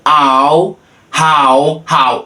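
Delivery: "How" with the h let out on a puff of breath. Shown as a demonstration. Teacher shows how "How" is pronounced, breath on the h. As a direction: release air as you start "How". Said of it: "tem que soltar o fôlego".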